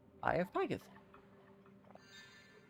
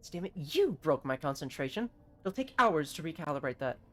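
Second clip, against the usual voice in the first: lightly voiced irritated engineer. Engineer whose concentration was broken, mildly exasperated. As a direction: scold with light, understated annoyance.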